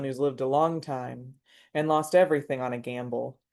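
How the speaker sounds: measured, deliberate poetry recital; steady spoken-verse delivery, line by line; poem reading. Acted. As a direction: read your poem aloud to a listening room. Reads their poem to the audience.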